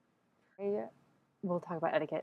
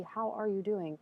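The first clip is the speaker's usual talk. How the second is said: genuinely asking, caring; sincere ask; 3 semitones higher, slower than usual. Shown as a demonstration. Asking a friend she truly cares about, sincerely. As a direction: ask it like you really want to know. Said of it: "I would ask you really".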